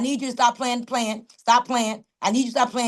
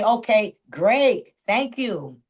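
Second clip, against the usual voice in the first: polite brush-off; 4 semitones lower, much slower than usual. Retold or imitated. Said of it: "I say".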